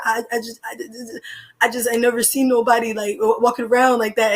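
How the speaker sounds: nervous stammering creep, half-hearted; imitating a stutter. Caught creep stammering excuses to the angry friend, mock stutter. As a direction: trip over every word like you're caught. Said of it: "the dude's, like, stuttering".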